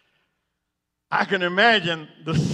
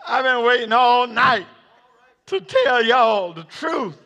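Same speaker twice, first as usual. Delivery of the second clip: Peter shouting; 5 semitones higher, 4 dB louder than usual. Acted. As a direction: draw it out like a proud declaration. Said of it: "I hear Peter say".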